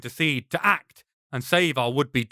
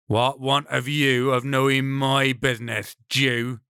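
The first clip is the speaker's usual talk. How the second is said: angry. Acted. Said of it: "His words are angry".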